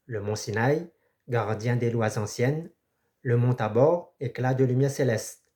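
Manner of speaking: measured poetry reading with pauses between phrases; solemn recited verse; poem recitation. Acted. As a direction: recite it line by line, lifting phrase ends. Recites a poem before commenting.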